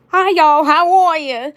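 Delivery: put-on high, loud Southern farm girl twang; chirpy country-girl greeting, Southern drawl; farm girl accent. Shown as a demonstration. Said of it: "give her, like, a farm girl accent".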